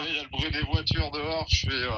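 thin phone line sound; on speakerphone. Real, not acted. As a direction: talk through a phone speaker. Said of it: "vous êtes en haut-parleur".

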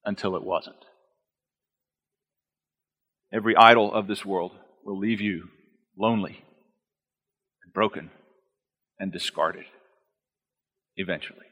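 hushed solemn. Acted.

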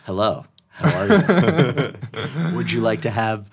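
stiff, flat robotic small talk; deadpan robot-like dating chatter. Pretend. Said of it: "Just be totally flat".

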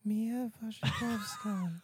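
Mia Wasikowska in an Australian accent. Shown as a demonstration. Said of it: "Do it in an Australian accent".

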